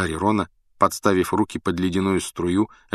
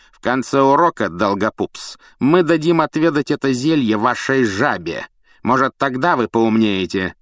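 menacing teacher; 5 semitones higher, 4 dB louder than usual. Acted. Snape threatens Neville.

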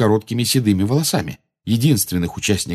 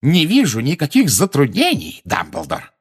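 high, loud, exultant; ringing with delight; 7 semitones higher, 4 dB louder than usual. A narrator's reading. Minister dismisses Dumbledore's objection, exultant. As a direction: ring it out high, then drop on the name. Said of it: "Его голос всё ещё звенел от восторга".

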